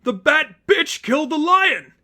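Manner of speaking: high, loud, rough yell; yelling inmate. Acted. Inmate yells at Batgirl from the walkway, loud and high. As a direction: spit it out like a furious inmate.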